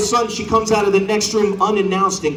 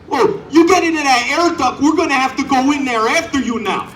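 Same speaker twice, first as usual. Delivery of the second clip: higher, louder, laughing mock Canadian politeness; a too-nice astronaut scolding gently; overly nice Canadian astronaut; 9 semitones higher, 4 dB louder than usual. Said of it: "they're like".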